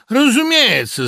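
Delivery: slow, high, loud and condescending; haughty drawl. A narrator's reading. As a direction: look down your nose as you say it. Administrator's haughty reply. (надменно и протяжно)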